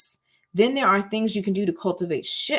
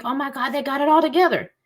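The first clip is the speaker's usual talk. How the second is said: mock awestruck fan; 6 semitones higher than usual. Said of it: "all these gurus and people you think".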